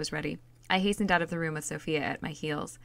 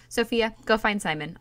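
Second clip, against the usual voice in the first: louder, higher command to a servant; sharp order; 5 semitones higher, 6 dB louder than usual. A narrator's reading. Princess ordering her maid to fetch Simon, commanding. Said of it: "I ordered".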